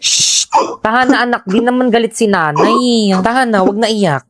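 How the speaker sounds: put-on gentle hush to a crying child; soothing. (mahinahong pag-aalo sa anak)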